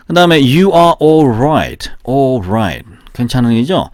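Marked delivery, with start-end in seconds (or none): none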